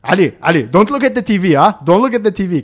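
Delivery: lightly voiced commanding boss; a hint of a boss ordering staff; big boss. VP warns Ali off the TV, lightly bossy. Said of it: "he's talking to him like that".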